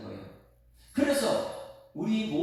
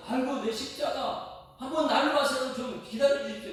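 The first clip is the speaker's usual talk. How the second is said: higher, pleading sigh of a plea; Jesus pleading; 8 semitones higher than usual. Retold or imitated. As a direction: beg for more time with an aching sigh. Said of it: "이것을 얘기하고 있어요".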